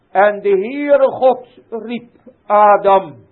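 loud, high, slowing to a proclamation; full-force preaching. Acted. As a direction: build until God calls Adam. Preaching God's call to Adam. (steeds luider en hoger preken)

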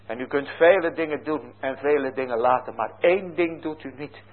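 ordinary delivery

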